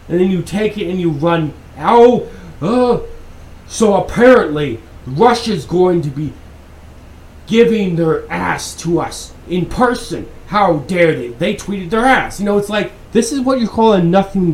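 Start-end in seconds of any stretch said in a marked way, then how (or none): 1.8-12.4 sarcastic, hammed-up shock over a tweet; a lightly mocking newsreader, pretending to be scandalized; mock media outrage. Mocking how the media hyped a tweet, with mild mock outrage.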